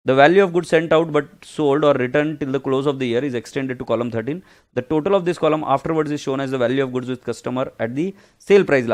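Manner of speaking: reading the textbook line aloud, slow and measured. Acted. Teacher reading the accounts rule to students, slow and measured. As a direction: spell it out slowly from the book.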